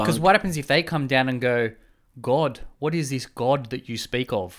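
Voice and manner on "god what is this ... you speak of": slow, lightly voiced alien visitor; a hint of a stately alien asking; mock alien. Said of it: "they say it in their mad alien voice".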